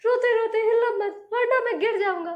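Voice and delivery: high, loud, panicky laughing plea; frantic begging not to be shaken; scared tailor. A narrator's reading. Tailor on the crying giant's back, panicking loudly. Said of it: "दर्जी डर गया".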